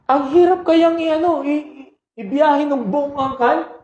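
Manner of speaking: emphatic exclaim. Real, not acted. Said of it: "emphatic point in the sermon".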